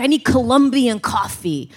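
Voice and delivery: imitated fussy father; lightly mock a dad's demand; a touch of grumbling dad voice; complaining dad. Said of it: "he's, like, always complaining".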